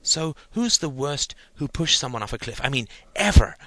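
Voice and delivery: put-on keen boy who can't wait for the answer; eager. A narrator's reading. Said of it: "asked Stephen eagerly".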